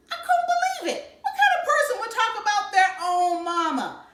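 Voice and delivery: can't hold the laugh in; laughing disbelief. A narrator's reading. Narrator reacts to Byron's insult, laughing.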